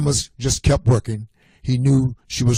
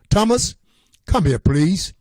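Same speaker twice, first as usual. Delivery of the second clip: calling out; 6 semitones higher than usual. Acted. Mother calls Thomas from down the hall, raised calling voice. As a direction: call the boy from another room.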